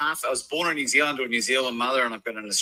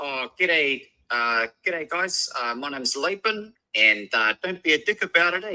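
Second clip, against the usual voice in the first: hyper-accentuated, exaggerated New Zealand accent; 3 semitones higher than usual. Asked to show the difference, the speaker demonstrates an exaggerated New Zealand accent. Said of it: "That's New Zealand".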